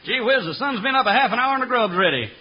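cranky chuckwagon cook. Acted. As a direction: holler like a camp cook at chow time. Commercial cook calling ranch hands.

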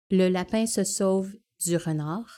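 the sentence in a Quebec French accent; French Canadian accent. Shown as a demonstration. Asked to demo, speaker says it Québécois-style. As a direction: say it the way they do in Quebec. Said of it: "So this was French Canadian".

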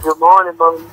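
put-on low, plain grown-up baby; deep grown man voice. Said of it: "sounding like a grown man".

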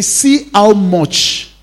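slow, marvelling quote; slow wonder. Acted. Pastor voicing the Jews at the tomb, slow wonder. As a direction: dwell on how dear. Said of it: "They say".

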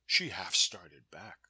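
ordinary delivery

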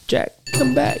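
breathy high whisper; Rose calling Jack. Retold or imitated.

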